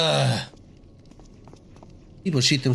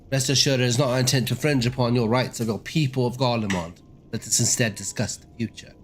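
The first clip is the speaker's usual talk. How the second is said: put-on a light British accent, formal and measured; 2 semitones higher than usual. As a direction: play the envoy with a British accent, politely. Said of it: "I decided to make him British".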